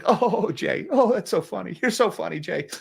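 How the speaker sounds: high, fawning mock flattery; fawning reporters. Mocking the press corps fawning over Jay, high and gushing. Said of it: "all the Steve Leisman and company in the press corps".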